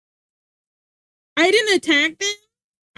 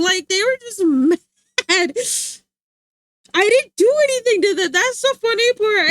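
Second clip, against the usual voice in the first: laughing; 8 semitones higher, 6 dB louder than usual. Real, not acted. Laughing retelling haters.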